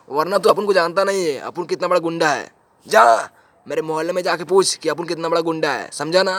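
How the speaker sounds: acted street-gangster bluster; boastful thug. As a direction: throw your weight around as a local goon.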